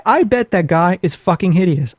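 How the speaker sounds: ordinary talk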